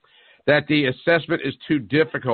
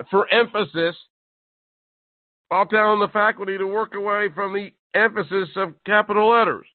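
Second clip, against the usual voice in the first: incredulous rant; 8 semitones higher than usual. Real, not acted.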